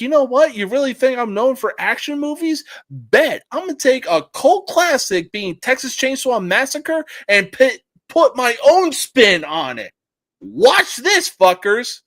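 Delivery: Michael Bay. Retold or imitated. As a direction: take on the doubters with a swaggering dare. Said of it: "Michael Bay was like".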